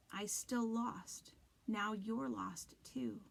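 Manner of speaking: slow eerie whisper-like voice; creepy voice. Acted. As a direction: drag out each word. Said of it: "not as creepy".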